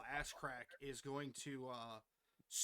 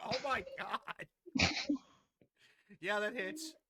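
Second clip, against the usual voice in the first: excited; 7 semitones higher, 9 dB louder than usual. Real, not acted. Reaction to a natural twenty.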